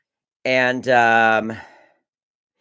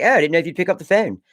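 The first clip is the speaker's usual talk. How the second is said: put-on sister's Maryland accent, a little higher; 4 semitones higher, much faster than usual. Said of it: "her accent got more and more like Maryland".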